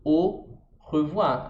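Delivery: very slow au revoir, au said as O; French au revoir. Shown as a demonstration. Teacher modelling au revoir as her example, very slow. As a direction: au revoir drawn out with a throaty R. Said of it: "Por exemplo".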